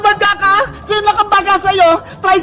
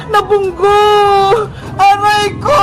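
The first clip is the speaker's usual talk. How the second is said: crying out; 2 semitones higher, slower than usual. Acted. Princess crashes into the scooter.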